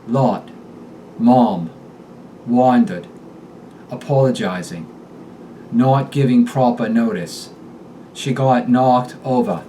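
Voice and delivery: "lot" and "knocked" with a long open aw vowel; Boston short o as aw. Shown as a demonstration. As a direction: stretch the short o in "mom" into aw, Boston style. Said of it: "The short O becomes aw".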